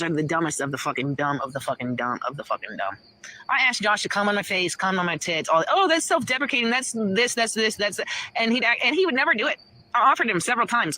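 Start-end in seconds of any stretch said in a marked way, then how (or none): 5.7-8.0 mocking imitation. Mimicking the critic's objection.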